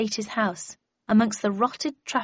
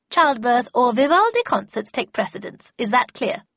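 higher, louder, commanding grand lady; imperious Miss Havisham; 5 semitones higher, 6 dB louder than usual. Acted. Miss Havisham tells her apprentice how things will go, imperious. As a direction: issue orders with absolute authority.

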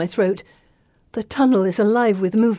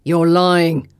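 louder, accusing snarl; 3 semitones lower, 5 dB louder than usual. A narrator's reading. Thug accusing the heroine of lying, snarling. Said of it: "Falson snarls".

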